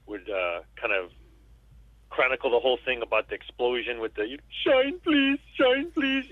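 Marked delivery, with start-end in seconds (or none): 4.6-6.3 high, strained, begging plea; pitched way up, pleading; pleading buddy voice. Retold or imitated. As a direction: squeeze it up high like a dying friend begging. Voicing Rambo's dying war buddy.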